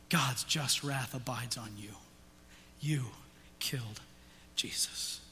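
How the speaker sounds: slow hushed whispered accusation. Real, not acted. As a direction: whisper it straight to each listener.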